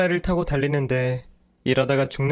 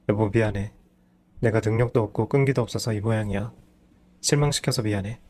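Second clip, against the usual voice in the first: dejected husband; 3 semitones lower than usual. Acted. Husband apologizing to his wife for failing, dejected. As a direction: sound beaten down.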